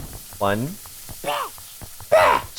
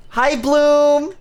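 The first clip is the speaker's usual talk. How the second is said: higher, brighter hello with a rising end; cheery greeting; 5 semitones higher than usual. Real, not acted. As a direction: sing out the name happily. Greeting chat viewer.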